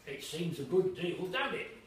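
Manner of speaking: slow, loud coaxing waiter, rising at the end; jolly waiter. Acted. Waiter admiring the ale to the boy, coaxing. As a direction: coax the boy into agreeing.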